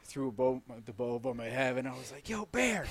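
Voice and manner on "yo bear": loud, high holler at an animal; re-enacted shout to a bear; calling out. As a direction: call out to make yourself known.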